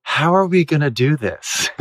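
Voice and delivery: barely holding in laughter; laughing through it. Retold or imitated. Actress asks her co-star mid-scene, laughing. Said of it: "I look at her and I go".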